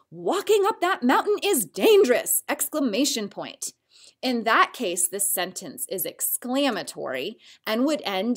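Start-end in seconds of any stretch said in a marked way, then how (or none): 0.1-2.4 higher, louder warning, "dangerous" stressed; mother warning a child, emphatic; strong warning. Shown as a demonstration. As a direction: warn the kid with feeling. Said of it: "She may warn him with strong feeling".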